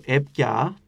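Έπια with two vowels and no s between; dropped consonant. Shown as a demonstration. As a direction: let the middle consonant of Έπια vanish. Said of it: "το βλέπουμε πιο έντονο να χάνεται". (Έπια χωρίς σίγμα, με σκέτα φωνήεντα)

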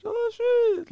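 high, startled "oh, shit"; shocked reaction. Retold or imitated. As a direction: react like you can't believe it. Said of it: "and they're all like".

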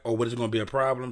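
fast, pointed question; rapid suspicious question; quick challenge. Retold or imitated. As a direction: fire it off quickly. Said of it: "I never said it like that".

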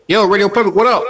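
high, loud, laughing hail; laughing loud greeting. Acted. Host hailing Radio Public, loud laughing greeting.

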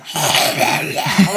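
creepy demon noise; evil demon voice. Retold or imitated. Showing what creepy sound Aiden made, demon noise. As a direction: imitate an evil demon's cry. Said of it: "evil demon voice".

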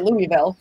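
Louisville as "LOO-ee-vil"; Bob's pronunciation. Retold or imitated. Co-host quotes how Bob says it, Louisville as LOO-ee-vil. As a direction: put an ee in the middle of Louisville. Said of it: "Bob calls it".

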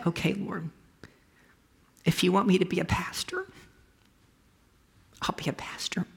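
hushed, surrendering whisper to God; whispered prayer. Retold or imitated. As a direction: breathe it out like a private vow. Retold surrender prayer at church.

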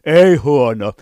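shrieking with delight at a dance show; flamboyant judge. Shown as a demonstration. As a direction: gush over the dancers, high and thrilled. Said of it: "dance show judge voices".

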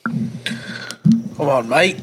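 lightly put-on English accent. Shown as a demonstration. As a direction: have a go at a British accent. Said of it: "hit me with your best English accent".

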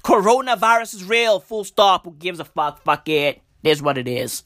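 a hint of careless shrug read, "Coronavirus" dropped without "the"; mock-careless reading of the government text. Shown as a demonstration. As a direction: toss off "Coronavirus is real, full stop" like nobody cares.

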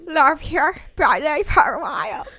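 slow, loud, belted; sing-shout it like a pop star; pop-singer-like belt. Shown as a demonstration. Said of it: "Sound like a pop singer".

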